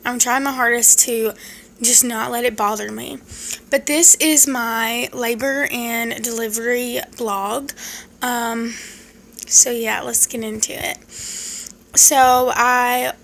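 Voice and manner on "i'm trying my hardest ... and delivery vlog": talking around a swollen tongue; thick, swollen-tongue speech. Real, not acted. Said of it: "the reason I sound weird is because the left side of my tongue is swollen".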